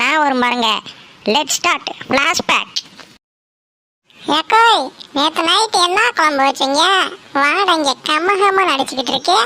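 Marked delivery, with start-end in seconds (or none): 1.3-2.7 a slowed, drawn-out announcement; dramatic flashback cue. Acted. Daughter-in-law cues the flashback with a very slow announcement. 4.4-9.4 put-on higher, wheedling beggar girl calling out. Beggar girl asks the woman about last night's curry, higher and wheedling.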